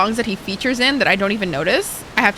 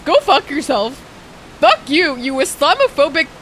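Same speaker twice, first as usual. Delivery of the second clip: heated rant; 4 semitones higher, 3 dB louder than usual. Real, not acted. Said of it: "this is me starting beef".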